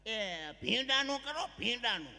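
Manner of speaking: firm loud order. Acted. Mother-in-law orders okra curry from the bride, loudly. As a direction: tell her what to cook, no discussion.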